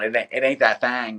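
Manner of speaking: mild Theo Von Southern twang on thang; a light Southern country accent; Southern drawl like Theo Von. Retold or imitated. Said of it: "to say it like Theo Von".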